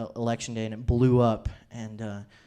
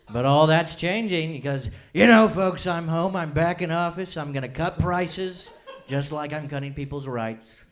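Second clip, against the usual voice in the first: a lightly voiced politician, slowed and drawn out; mediocre president impression; 3 semitones higher than usual. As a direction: do a so-so stump-speech impression. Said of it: "my mediocre impression".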